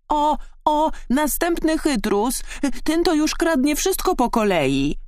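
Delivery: very high, jeering frog voice; croaking frogs. A narrator's reading. Frogs spotting the sly fox, high croaking jeer. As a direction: pitch it right up and jeer. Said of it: "zarechotały żaby".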